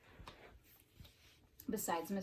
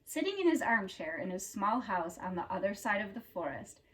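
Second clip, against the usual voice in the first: storybook narration; 8 dB louder than usual. A narrator's reading. Reader telling children about Mister Tickle, storybook narration. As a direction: read it like a picture book for children.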